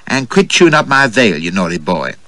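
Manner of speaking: lightly voiced flirtatious American lady, teasing; a hint of a playful American belle; coquettish American woman. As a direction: play her as a coy, teasing flirt.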